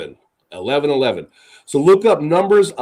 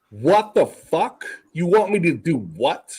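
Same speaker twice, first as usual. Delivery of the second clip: Moses questioning God. Acted. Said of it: "looking up at God saying".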